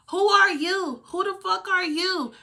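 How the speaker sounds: high, slow mocking yell of the other mother; mock angry mother. Neighbor mom confronting the teller, high and outraged. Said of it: "So she like".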